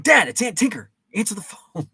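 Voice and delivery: high-pitched retold pestering; exasperated yell. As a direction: act out a kid hollering across the house. Retelling calling ignoring dad again.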